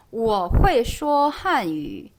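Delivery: 会 said "huei", with the e heard; slow 我会说汉语, 会 gliding through e; model sentence. Shown as a demonstration. Teacher modelling Chinese for beginners, model sentence. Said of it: "어때요?".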